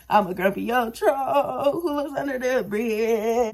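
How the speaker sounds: slow troll voice breaking into laughter; laughing troll. Pretend. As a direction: laugh through the troll line. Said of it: "I look like a".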